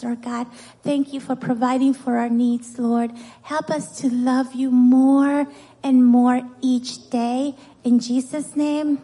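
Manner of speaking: simple, even-pitched prayer voice; leading a prayer. Real, not acted. Teacher praying with children to the Lord, steady prayer voice. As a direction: pray it steadily on a level tone.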